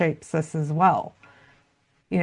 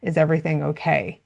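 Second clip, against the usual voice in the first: gentle check-in. Shown as a demonstration. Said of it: "being able to say".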